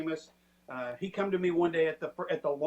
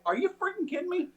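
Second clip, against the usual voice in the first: incredulous disbelief; 12 semitones higher than usual. Retold or imitated. Shy carpenter asked to write.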